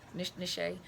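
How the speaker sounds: "niche" tested tentatively, soft sh, then an -ay ending; unsure niche pronunciation. Shown as a demonstration. Coach doubting herself, sounding out "niche" as nish, nih-SHAY. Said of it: "I probably pronounced it wrong".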